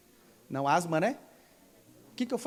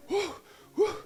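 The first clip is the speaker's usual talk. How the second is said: imitated high gasps; 11 semitones higher than usual. Imitates woman catching breath after healing.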